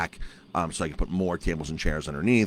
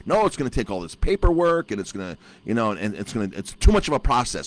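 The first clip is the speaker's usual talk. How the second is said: higher, whining excuse in a mocking voice; mock whiny excuse; 4 semitones higher than usual. Owner mimics mayor complaining about paperwork, mock whine. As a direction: whine it like the lazy official.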